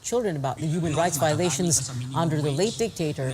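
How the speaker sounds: measured TV news anchor delivery; news read. Acted. Anchor introduces clip of senatorial debate clash, news read.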